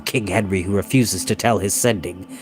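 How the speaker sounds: low, quiet and grim; a warlord holding back his anger; grim Welsh leader. A narrator's reading. Glyndwr grimly addressing the captive boy, low and soft.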